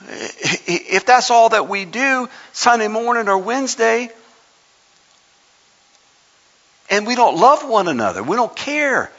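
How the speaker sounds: high-pitched sermon appeal; impassioned preaching. Real, not acted.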